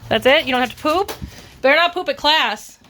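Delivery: high, chatty dog voice; asking the puppy if he's done; puppy talk. Real, not acted. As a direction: tease the puppy. Talking to puppy.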